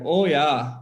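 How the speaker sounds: Wisconsin fisherman's "oh, yeah"; thick Wisconsin accent. Retold or imitated. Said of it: "they thick accent".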